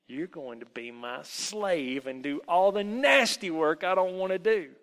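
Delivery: loud, domineering elf; nasty old elf. Acted. Old elf claims the boy as slave, bullying.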